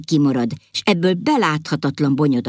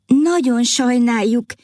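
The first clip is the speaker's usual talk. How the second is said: apologetic queen; 8 semitones higher, slower than usual. A narrator's reading. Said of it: "kezdett mentegetőzni a királyné".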